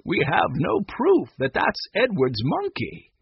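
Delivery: gently reasoning grandfather; understated kindness; kindly. A narrator's reading. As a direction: let the child down kindly. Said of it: "Grandfather said kindly".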